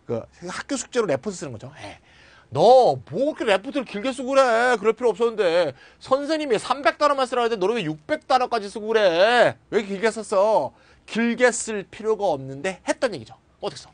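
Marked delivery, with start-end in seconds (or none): 2.5-10.7 higher, louder mock scolding; acted-out fussy reproach; nagging scold. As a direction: chide them in exasperated disbelief. Acts out scolding someone's long report.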